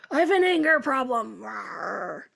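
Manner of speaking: hammed-up angry claim, ending in a growl; play-acted anger with a rawr; mock angry. Acts out an angry client, growls.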